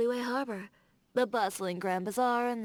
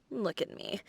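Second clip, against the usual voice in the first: a little self-mocking laugh into the words; laughing at herself. Real, not acted. Chuckling at herself for steering the chat back to work. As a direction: laugh it off, a bit embarrassed.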